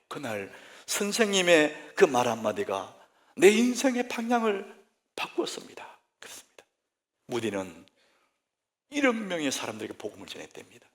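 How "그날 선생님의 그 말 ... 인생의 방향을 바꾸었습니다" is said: grateful recollection. Retold or imitated. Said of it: "훗날에 그는 얘기해요".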